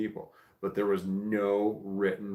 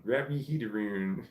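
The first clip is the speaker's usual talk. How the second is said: "heed aroon" with Scottish vowels; Scottish accent. Shown as a demonstration. Retrying a chatter's phrase, fuller Scottish accent. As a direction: go Scottish on both HEAT and AROUND, as "heed aroon". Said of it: "This is a hard accent".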